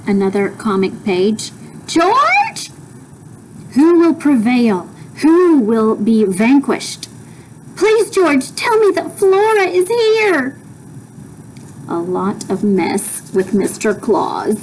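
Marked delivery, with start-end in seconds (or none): 1.9-10.6 high, worried mother; mother worried about her daughter; anxious mother. Acted. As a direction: plead anxiously. Mother's voice, read aloud.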